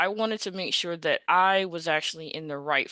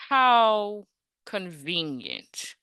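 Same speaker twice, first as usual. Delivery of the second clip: sarcastic; much slower than usual. Retold or imitated. Confronting the hiring manager on phone.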